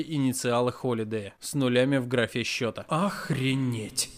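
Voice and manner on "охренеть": stunned. A narrator's reading. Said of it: "только и смог сказать я".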